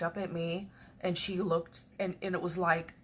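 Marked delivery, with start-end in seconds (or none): none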